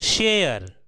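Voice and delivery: शेयर said as "shair", long air ending; share as air sound. Shown as a demonstration. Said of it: "आपने गौर किया".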